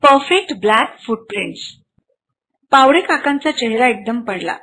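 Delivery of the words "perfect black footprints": 1 slow robotic read. Acted. App verdict read out slowly.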